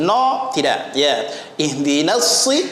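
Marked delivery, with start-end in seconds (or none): 1.5-2.7 Ihdinas with a light "na", heavy s; thin na, thick sad. Shown as a demonstration. Teacher corrects the mistake, na thin. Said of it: "na tipis".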